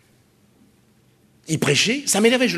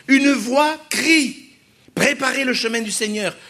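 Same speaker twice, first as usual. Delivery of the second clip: proclaiming scripture; 6 semitones higher, slower than usual. Acted. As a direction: call it out like a prophet in the desert. Preacher proclaiming scripture loudly.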